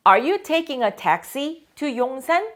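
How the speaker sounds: Are you taking a taxi to 용산? said slowly again with a rising end; slow model question, repeated. Shown as a demonstration. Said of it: "teacher models the question".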